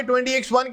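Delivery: "ट्वेंटी एक्स वन" read as English twenty, X, one; year read-out. Shown as a demonstration. Teacher showing students how a year is read, "ट्वेंटी एक्स वन" in English. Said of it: "इसको पढ़ा जा रहा है किस नाम से?".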